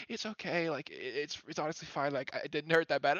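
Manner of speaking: quiet, gentle reassurance; soft reassuring. Retold or imitated. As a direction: soothe him softly. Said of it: "She's like".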